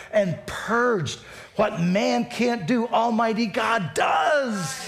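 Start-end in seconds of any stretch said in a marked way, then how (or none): 1.5-4.9 high, slow, drawn-out proclamation; preacher's climactic shout. Real, not acted. Pastor proclaiming God's power to the congregation, climactic shout. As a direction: stretch it out and build to a shout.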